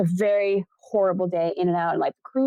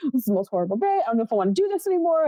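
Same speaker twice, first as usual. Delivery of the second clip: retold crying; 3 semitones higher, much faster than usual. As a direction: imitate a tearful meltdown on the phone. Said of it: "on the phone with my husband crying".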